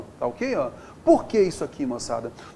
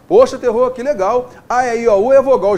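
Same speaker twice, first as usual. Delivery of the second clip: louder, hammed-up eager student cheering; mock excited student; 4 semitones higher, 9 dB louder than usual. Teacher playing a student delighted by the lesson, mock excited. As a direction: play a thrilled pupil who just got it.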